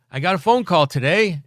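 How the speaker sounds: imitating the manager. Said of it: "He goes".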